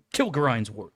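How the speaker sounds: talking through hiccups; hiccuping words. Real, not acted. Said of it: "I got the hiccups".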